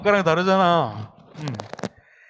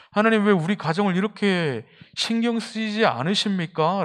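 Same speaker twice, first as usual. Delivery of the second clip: rising plea; 4 semitones higher than usual. Retold or imitated. Preacher recalling his own prayer to God, higher and pleading. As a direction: push the 왜 up as the complaint grows. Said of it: "저는 굉장히 많아요".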